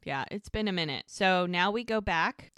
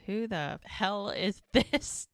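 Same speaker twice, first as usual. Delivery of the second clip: baffled. Retold or imitated. Mel baffled at the pair.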